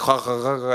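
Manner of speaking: a mild imitation of a stiff "ha, ha, ha"; mock Dutch laugh. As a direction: lightly mimic the local's laugh. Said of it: "It's a good impression".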